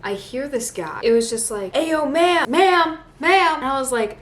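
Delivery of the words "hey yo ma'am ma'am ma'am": high, loud mock street holler; imitated catcall yell. Friend yelling at her on the street, imitated catcall. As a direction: imitate someone yelling after a passerby. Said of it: "they were yelling at me".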